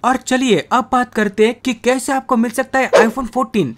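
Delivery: energetic, emphatic promo delivery; sponsor ad read. Acted. Gamer pitching a fantasy cricket app to subscribers, ad read. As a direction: sell the app to your viewers.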